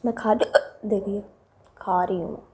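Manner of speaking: slow whisper between hiccups; hiccuping while eating. Real, not acted. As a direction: talk through hiccups with mouth full. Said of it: "इतनी ज़्यादा मुझे हिचकी आ रही है".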